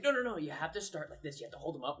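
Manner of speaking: high, loud mock correction; bossy lady. Missionary mimics the lady correcting his trainee's prayer, high and bossy. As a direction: boss him around like the lady did.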